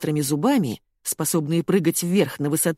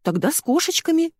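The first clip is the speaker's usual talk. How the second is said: put-on child suggesting; 12 semitones higher than usual. A narrator's reading. Маня suggests sweetly.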